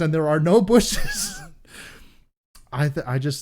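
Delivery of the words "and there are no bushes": slow, higher retelling of no bushes, leaning on no; higher, slowed-down punchline; punchline again. Real, not acted. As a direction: hit the punchline once more. Repeating the punchline.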